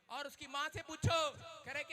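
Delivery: ordinary delivery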